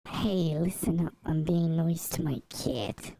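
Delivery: mock New York tough talk; New York accent. Streamer defending being nice to the cat, New York accent. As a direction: play a New Yorker laying down the law. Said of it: "why that requires a New York accent".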